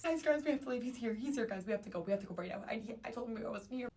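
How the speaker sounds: urgent whispered-style alarm to friends, pitched high; panicked. Retold or imitated. Warning friends he's at the bar, high panicked urging. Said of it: "low-key panicking".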